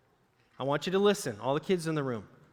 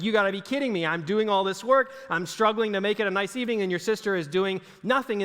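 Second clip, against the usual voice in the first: upset Martha; 3 semitones higher than usual. Retold or imitated. Martha complaining about her sister, mildly exasperated. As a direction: vent the unfairness with mock frustration. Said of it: "And she's upset".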